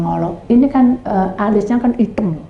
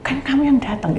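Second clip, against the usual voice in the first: inner thought; 3 semitones higher, 8 dB quieter than usual. Retold or imitated. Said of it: "Dalam hati saya".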